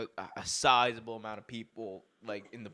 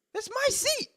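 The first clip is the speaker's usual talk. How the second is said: put-on high whiny child's wail; hammed-up toddler tantrum; mock temper tantrum. Retelling how he yelled at the kid, a high whiny tantrum. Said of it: "having a whole temper tantrum".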